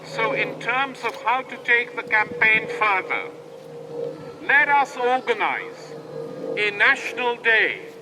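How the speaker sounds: measured platform oratory with pauses between phrases; rallying call. Real, not acted. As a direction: urge a crowd to organize. Urges crowd to organize.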